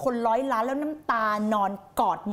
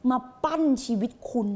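usual speaking voice

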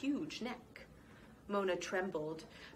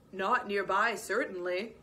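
huffing badger; 5 dB louder than usual. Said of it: "huffed the badger".

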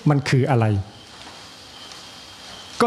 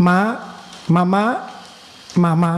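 put-on Chinese baby saying mother; 3 semitones higher than usual. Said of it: "เด็กจีน ลูกจีน ออกเสียงอย่างไร".

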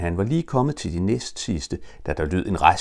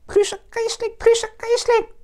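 very high, loud excited piping; eager squeak; 3 dB louder than usual. Acted. Roo pipes eagerly down to Pooh and Piglet, very high. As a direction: squeak their names with glee. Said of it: "meget ivrigt ... pep".

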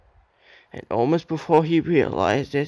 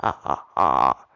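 laughing; 10 semitones lower than usual. A narrator's reading. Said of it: "Edward laughed".

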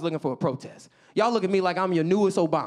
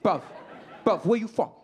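put-on British street accent, quick bursts; excited British local; 2 semitones higher than usual. London local to a visiting American, excited British accent. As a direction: pepper him with questions in a London accent. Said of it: "They were very excited by my accent".

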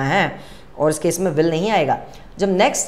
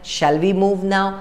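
slow model sentence; much slower than usual. Shown as a demonstration. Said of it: "तो आपको क्या बोलना है?".

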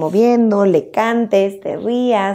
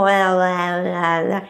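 put-on baby babble; slower than usual. Shown as a demonstration. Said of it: "No se entienden muy bien".

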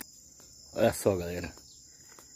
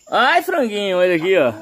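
pet talk; 6 semitones higher, 4 dB louder than usual. Real, not acted. Talking to his chickens.

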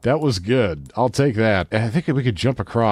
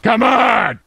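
imitating Leon; 8 semitones higher, 4 dB louder than usual. Mimics game line.

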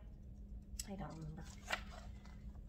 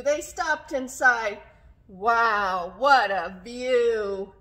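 louder, animated read-aloud with stretched words; story reading to children; 9 dB louder, much slower than usual. A narrator's reading. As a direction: read it out rhythmically for little listeners.

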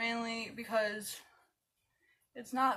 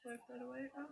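talking with mouth held open; applying mascara; 16 dB quieter, much faster than usual. Real, not acted. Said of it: "Don't mind my mascara face".

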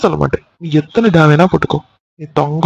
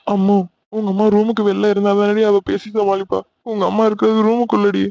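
soft, tense hushed talk; whisper-talk so mother won't hear; hushed panic; 3 semitones higher, 5 dB quieter than usual. Acted. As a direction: lovers caught, hissing in hushed fear.

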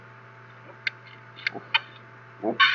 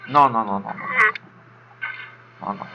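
screaming while falling; 3 dB louder than usual. Real, not acted. Falling in game.

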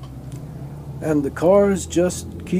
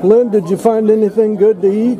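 louder, higher call across room; 4 semitones higher, 7 dB louder than usual. Real, not acted. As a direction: call out to a friend. Calling across the buffet.

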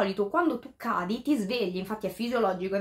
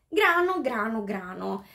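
crow's refrain. Retold or imitated. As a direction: repeat it like a crow's call, falling after the first. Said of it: "questo corvo usa dire molto spesso".

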